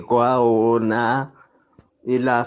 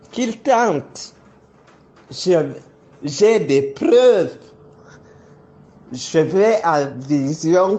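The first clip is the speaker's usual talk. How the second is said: raised, defiant accusing voice; heated; 5 semitones higher than usual. Real, not acted. Public accusation, defiant heated denunciation.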